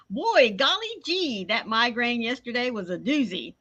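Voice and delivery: put-on golly-gee kid voice, lightly done; a hint of an old-fashioned kid; wholesome 1950s kid. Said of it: "Little Carrie says".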